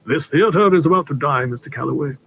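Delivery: brisk, matter-of-fact again; businesslike. Acted. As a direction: back to business, firm. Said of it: "Then businesslike once more".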